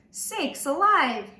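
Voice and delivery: dad gasping at the crowds; gasped exclamation. A narrator's reading. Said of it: "he gasped".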